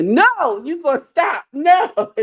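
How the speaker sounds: high-pitched protest breaking into laughter; cracking up while telling them to stop; real amused, rising protest; laughing protest. Real, not acted. Bursts into laughter at comment.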